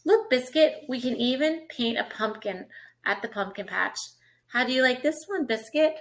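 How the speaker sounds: bright, lilting picture-book read; reading to children. Acted. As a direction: read it like storytime for a toddler.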